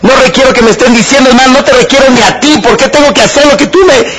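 imitating Angélica snapping that she needs nobody; angry retort. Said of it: "Y enojada me dice". (Angélica enojada reclamando que no necesita a nadie)

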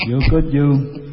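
lightly voiced tough guy; a hint of the movie wise guy; Robert De Niro. Actor approving of someone, lightly voiced tough-guy impression. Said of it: "échate un Bobby De Niro".

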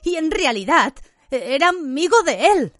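Harry accusing Lupin; angry shout. A narrator's reading. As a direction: throw it at him. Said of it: "gritó a Lupin".

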